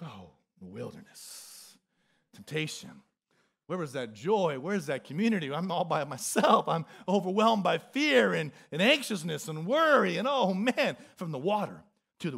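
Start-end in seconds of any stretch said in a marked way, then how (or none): 0.0-10.2 mock gloom. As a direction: sink into a play-acted Monday gloom. Mocking Monday despair.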